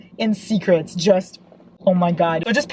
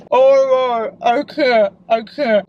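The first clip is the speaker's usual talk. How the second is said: excited; 4 semitones higher, 5 dB louder, slower than usual. Real, not acted. Swooning over book dialogue.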